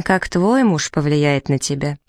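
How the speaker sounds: "твой" stressed in a slow question; pointed emphasis on "твой". A narrator's reading. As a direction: lean on "твой", slowing down to turn it back. Turns sister's remark back on her.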